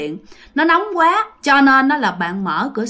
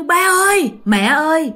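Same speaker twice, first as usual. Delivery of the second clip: imagined call for parents; 5 semitones higher than usual. Retold or imitated. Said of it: "Bạn tính rằng á là sẽ kêu".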